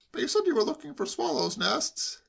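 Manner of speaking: high-pitched protest; argumentative nephew. A narrator's reading. Nephew holding uncle to his words, argumentative. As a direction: object in a high, insistent voice.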